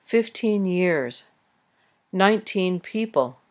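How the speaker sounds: Fifteen and nineteen stressed on fif and nine before the noun; stress moves forward. Shown as a demonstration. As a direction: lean on the front of the number, then the noun. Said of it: "the stress on the teen number often moves to the first syllable".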